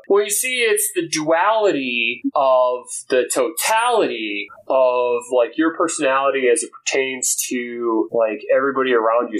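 lightly pompous waffling; word-salad pontificating. Retold or imitated. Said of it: "he started talking like that".

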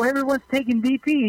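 insist, pitched well up; panicked rookie. Retold or imitated. Retold locker room exchange.

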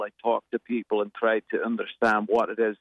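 lightly put-on Scottish accent; conversational Scottish lilt. Shown as a demonstration. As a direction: slip into a Scottish accent as you explain. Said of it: "if I go to Scotland".

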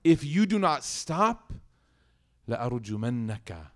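angry threat. Retold or imitated. Father threatens son with stoning.

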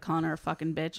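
usual speaking voice

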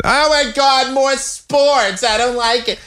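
high-pitched parody of a fed-up fan; mock annoyed listener. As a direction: mimic a listener groaning about sports. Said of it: "I know some of you are".

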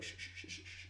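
soft hushing shh, drawn out; slow whisper. Retold or imitated. The killer hushing the dying soldier, slow whisper. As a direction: hush him slowly, barely a breath. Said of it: "just slowly whispers".

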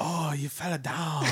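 slow, laughing mock Asian accent. Retelling the lady's words, slowly in a mock Asian accent. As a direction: drag it out in a joking accent. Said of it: "terribly racist Asian accent".

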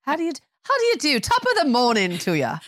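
quick, high, hammed-up Cockney accent; a playful music-hall Cockney greeting; mock Cockney accent. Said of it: "I somehow go to a Cockney accent".

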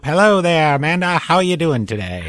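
put-on high, loud old-time radio greeting; old movie voice. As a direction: project to the mic like an early film star. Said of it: "they'd rather have you talk like that".

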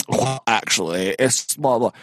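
slow lightly mocking well-actually; a touch of a pedantic drone; nasal smug neckbeard. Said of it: "Everything he says is like".

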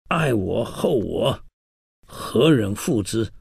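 slow, drawn-out mock call from the city wall. Li Bosheng laments his loyalty, calling slowly from the city wall. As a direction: stretch each word out as if crying down from the ramparts. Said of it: "就在城上喊到了".

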